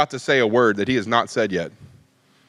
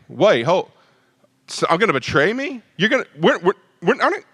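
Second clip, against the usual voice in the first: flustered disciples; 4 semitones higher than usual. Retold or imitated. Disciples panic at betrayal news.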